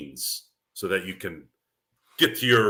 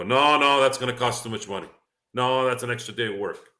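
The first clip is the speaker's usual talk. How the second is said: mock objection; 3 semitones higher than usual.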